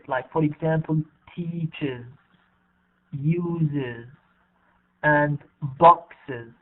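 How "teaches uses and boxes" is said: "teaches, uses, boxes" each ending in an "iz" syllable. Shown as a demonstration. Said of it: "is pronounced E Z".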